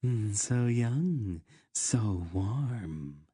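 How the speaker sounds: slow, sultry purr; seductive queen. Acted. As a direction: draw each word out with hungry pleasure. Seductive queen eyeing her captive.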